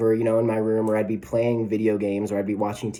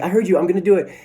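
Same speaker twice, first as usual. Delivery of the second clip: put-on higher, louder kid voice promising; impatient kid; 7 semitones higher, 6 dB louder, much faster than usual. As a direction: kid fobbing off mom. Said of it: "I'm like".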